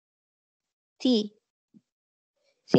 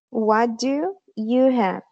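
slow model phrase; much slower than usual. Shown as a demonstration. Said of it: "se pronuncia".

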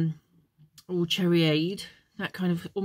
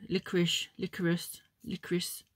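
trailing off softer and softer into a whisper; fading to a whisper; 5 dB quieter than usual. Shown as a demonstration. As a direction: let each repeat drop quieter until whispered. Repeating word, fading out.

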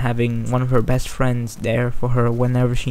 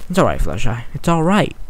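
murmured comfort; faster than usual. Acted. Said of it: "Twilight murmured".

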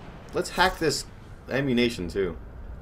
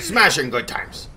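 brisker, less shouted mock war cry; short battle cry; 2 semitones higher, 4 dB louder than usual. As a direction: toss off the playful cry quickly. Same battle cry, shorter take.

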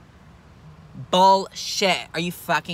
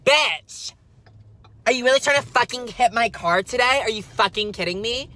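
shrieking at the cyclist, much louder and higher; furious road rage yell; 7 semitones higher, 6 dB louder than usual. Acted. Driver screaming at a cyclist who nearly hit her car, furious yell. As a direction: scream it out the car window like he nearly wrecked you.

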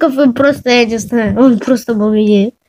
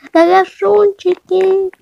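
drawn-out teasing; 6 semitones higher, slower than usual. Real, not acted.

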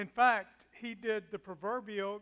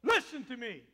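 angry command; 3 semitones higher, 9 dB louder than usual. Acted. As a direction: demand his attention. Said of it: "he's saying".

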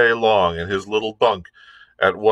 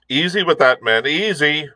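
higher calling order to the crew; captain calling out; 7 semitones higher than usual. A narrator's reading. Captain calls out a warning to the men shifting powder. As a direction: warn the men carrying powder.

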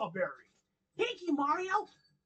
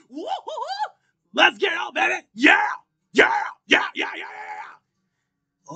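hyper Knuckles voice; 6 dB louder than usual. Acted. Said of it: "you have a lot of energy".

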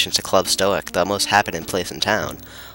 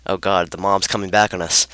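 ordinary talk, nothing marked

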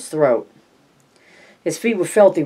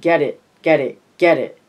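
put-on toddler yelling; 4 dB louder than usual. A narrator's reading. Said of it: "Gage yelled".

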